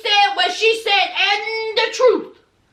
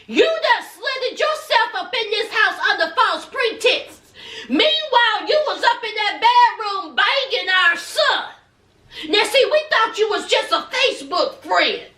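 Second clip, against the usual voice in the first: 1 accusing parents; 3 semitones higher than usual. Retold or imitated. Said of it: "That's what Submit's parents said".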